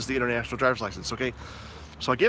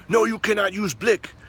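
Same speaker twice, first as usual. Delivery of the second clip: imitating the cop; 6 semitones higher, 3 dB louder than usual. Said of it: "And he's like".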